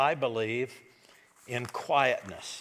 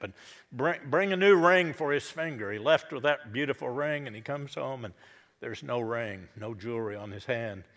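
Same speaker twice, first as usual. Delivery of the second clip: eager father; 4 dB louder than usual. Acted. Father orders a new ring.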